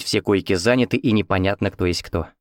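ordinary delivery

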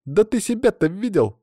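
put-on high-pitched girl's comeback; lively objection. A narrator's reading. Katya arguing back at Stas, spirited objection. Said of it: "возразила Катя".

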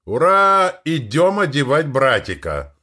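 high, loud delighted yell; excited squeal. A narrator's reading. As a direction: shriek with joy, bouncing. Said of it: "Восторженно завопила Вика".

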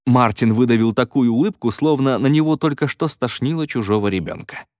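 usual speaking voice

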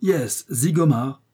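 "Zigomar" drawn out slowly with weight; emphatic confirmation. A narrator's reading. American confirms the name to the detectives, emphatically. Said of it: "appuya l'Américain".

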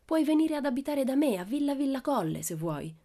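consoling. A narrator's reading. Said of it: "disse per consolarla".

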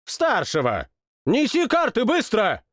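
high, urgent royal yell; shouting at servant. Acted. King shouts at the servant for cards, high and urgent. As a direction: bark at the servant to hurry. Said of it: "закричал на слугу".

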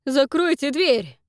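loud, slow, frantic order; a loud, desperate yell; shouted command. Acted. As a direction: shout to shut the door. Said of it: "выкрикнул Фрэнк".

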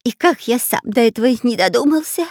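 high, loud excited squeal; robber's squeal. Acted. Robber squealing approval to the pirate. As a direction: shriek it with sudden joy.

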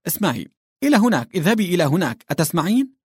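high, fast, insistent shouting of orders; exasperated yelling at the governess. A narrator's reading. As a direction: bark the orders at someone who cannot understand.

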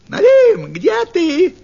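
very high, very loud triumphant yell; Russian: очень громкий, высокий крик лисы; fox yelling. Acted. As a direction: shriek for the burbot, sure she has won. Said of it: "крикнула лисица".

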